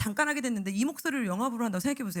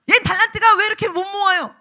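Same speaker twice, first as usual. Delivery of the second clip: nagging scold; 6 semitones higher, 10 dB louder than usual. Retold or imitated. Teacher nagging child.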